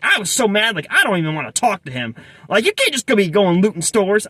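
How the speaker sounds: lightly indignant, in an imitated inner-city Black accent. Cashier mad at her looting boyfriend, imitated inner-city Black accent. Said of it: "I'm gonna do a terrible job imitating her accent".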